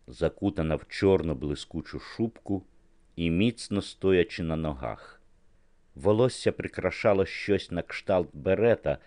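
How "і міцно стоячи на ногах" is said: ordinary delivery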